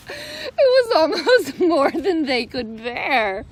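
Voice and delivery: words broken by real laughter; laughing reader. Real, not acted. Reading the end to the kids, still laughing. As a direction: laugh your way through it.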